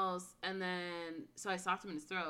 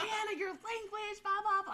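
mock scolding mom; 12 semitones higher than usual. Retold mom scolding her language.

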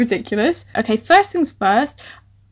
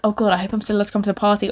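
inner thought; 2 semitones lower, 5 dB quieter, much faster than usual. Acted. Pupil privately hoping she can still go, hurried inner thought. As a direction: rattle it off softly as if to yourself. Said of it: "you'd think in your head".

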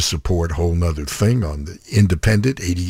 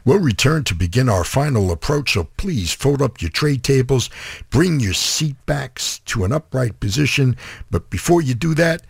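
airline cabin announcement, pitched up; chirpy in-flight announcement, higher; flight attendant; 5 semitones higher than usual. Pretend. Mock in-flight announcement on radio.

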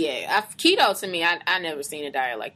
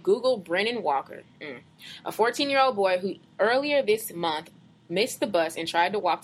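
measured, deliberate read-aloud voice; reading a post aloud. Acted. Reading a Facebook post to a co-host, measured read-aloud. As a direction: read it out slowly and evenly.

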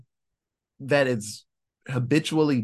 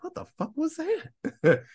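much higher, slow, disbelieving outburst; shocked; 13 semitones higher, 3 dB quieter than usual. Retold or imitated. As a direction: stretch it out in baffled shock. Iris reacting after scooting off.

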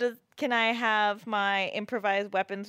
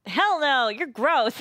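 louder, higher, grossed-out no; disgusted refusal; 4 semitones higher, 4 dB louder, much slower than usual. Acted. Player rejecting Jeremy's hand, loud and disgusted. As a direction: shove him off with a laugh.

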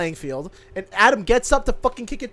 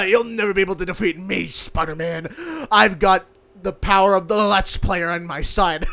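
calm menacing drug lord. Pretend. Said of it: "I sound like Kingpin".

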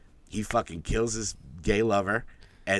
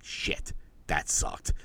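mock disappointed mutter; 5 semitones lower, 6 dB quieter, much slower than usual. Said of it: "you're like".

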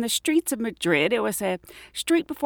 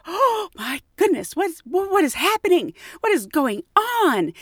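panicked; 9 semitones higher than usual. Retold or imitated. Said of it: "I was like".

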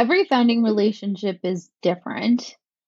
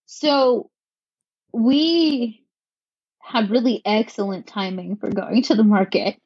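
sarcastic. Real, not acted. Founder to interviewer on her launch timing, sarcastic. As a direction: stretch the opening words, then deliver mock praise. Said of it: "sense some sarcasm in my voice".

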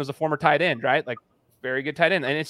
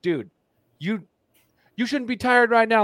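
yelling coach; 8 semitones higher than usual. Retold or imitated. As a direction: bark orders like a gym coach. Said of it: "they'll be yelling at you".

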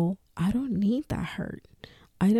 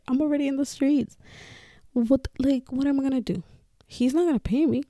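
higher, fast, frantic questions; retold panic; 5 semitones higher, faster than usual. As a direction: replay the desperate outburst at the friend. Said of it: "And I was like".

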